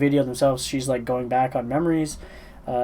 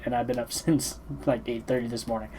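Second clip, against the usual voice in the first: yawning; 7 dB quieter than usual. Real, not acted. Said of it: "I apologize for yawning over this".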